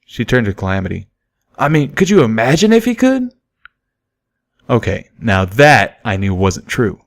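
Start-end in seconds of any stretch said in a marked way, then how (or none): 1.6-3.3 amused mare. A narrator's reading.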